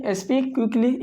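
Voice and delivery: drawn out slowly and deliberately; slow model phrase. Shown as a demonstration. Teacher repeating the phrase for the class, slowly. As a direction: say it at half speed for the students. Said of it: "तेज़ बोलो के लिए".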